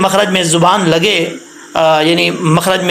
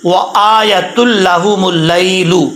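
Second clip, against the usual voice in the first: slow, drawn-out Quranic recitation; slower than usual. Shown as a demonstration. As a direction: recite the verse slowly and carefully. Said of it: "लाम पेश लू". (धीमी तिलावत)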